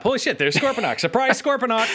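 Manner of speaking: high-pitched, hammed-up astonishment; mock surprise. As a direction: feign shock at a villain popping up. Mock surprise at villain's sudden entrance.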